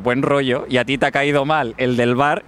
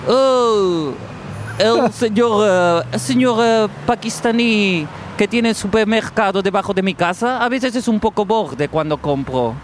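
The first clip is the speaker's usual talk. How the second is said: mock whiny friend; 5 semitones higher than usual. Quoting a friend, raised voice.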